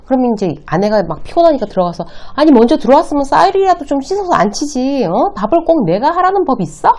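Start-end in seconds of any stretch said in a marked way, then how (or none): 2.4-6.9 high-pitched, fed-up complaint; acting out an exasperated wife; irritated nagging wife. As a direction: snap at a husband who left all the chores. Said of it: "막 신경질을 냈어요".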